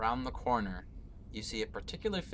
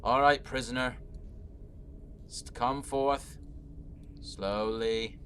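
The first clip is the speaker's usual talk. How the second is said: guard's command; 2 semitones higher, 5 dB louder than usual. Acted. Guard ordering prisoner out.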